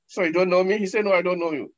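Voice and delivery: alarmed denial. Acted. Dialogue with bad deeds.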